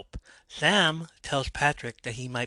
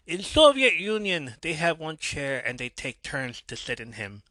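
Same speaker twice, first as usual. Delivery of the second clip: mock Russian accent, higher opening; 3 semitones higher than usual. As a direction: put on a hammy Russian accent. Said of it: "speaking in a Russian accent".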